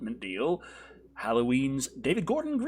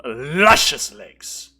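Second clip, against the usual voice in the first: slow, drawn-out creepy; 2 semitones lower, 10 dB louder, much slower than usual. Acted.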